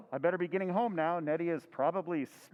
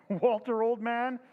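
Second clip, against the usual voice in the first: laughing amazement; 5 semitones higher than usual. Acted. Henry amazed at the robot.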